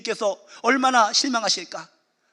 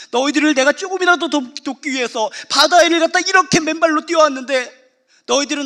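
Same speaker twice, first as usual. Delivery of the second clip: raised, louder voice of a let-down Jesus; disappointed Jesus; 5 semitones higher, 5 dB louder than usual. Retold or imitated. Jesus to his disciples, louder, hurt and let down. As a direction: plead as the hurt Lord.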